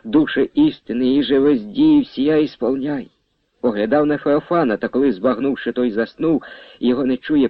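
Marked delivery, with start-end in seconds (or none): 0.0-3.1 murmured prayer. A narrator's reading. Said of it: "проказував молитву".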